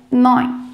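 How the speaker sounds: neun said as "noin", EU like an open O; teaching pronunciation. Shown as a demonstration. Teacher models neun for students. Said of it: "o E e o U tem som de O".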